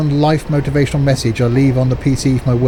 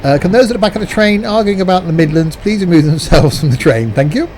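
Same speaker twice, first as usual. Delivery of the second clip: mock guard announcement; 5 semitones higher than usual.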